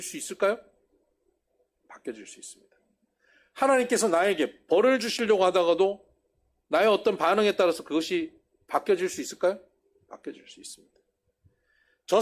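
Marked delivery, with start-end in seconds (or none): 1.9-2.8 hushed answer. Real, not acted. Preacher answering his own question to the congregation, hushed. 10.1-11.0 hushed answer. Real, not acted. Preacher answering his own question to the congregation, hushed.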